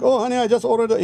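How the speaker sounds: high, quick mock husband voice; mincing husband. Mocking the henpecked husband to a friend, high and fast. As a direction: mimic a fussy husband. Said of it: "he was like".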